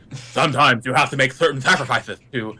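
lightly voiced low calm villain; a hint of Wilford Brimley menace; Kingpin impression. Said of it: "your Kingpin impression is Wilford Brimley".

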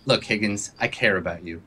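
sincere pitch to a wavering friend; earnest appeal. Acted. Vince tells Higgins they are friends, earnest appeal.

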